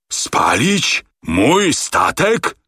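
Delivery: high, very slow rising questions; can't believe it, aghast; outraged disbelief. A narrator's reading. Captain shocked.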